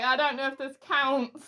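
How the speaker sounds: high, laughing wail of a desperate citizen; laughing mock panic. Voicing a scared citizen without jazz, laughing wail. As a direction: wail it high while laughing, half crying.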